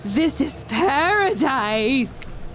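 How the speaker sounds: slow, drawn-out talking ocean; weird ocean voice. Acted. Ocean speaks to someone fleeing the beach, weird ocean voice. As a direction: stretch the words like an eerie talking sea. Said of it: "I don't know what the ocean sounds like. I'm getting real weird with it".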